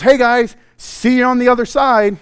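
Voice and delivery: high, loud, casual call; breezy Jesus. Acted. Jesus walking by the rowers, breezy loud call. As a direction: call out a carefree goodbye in passing.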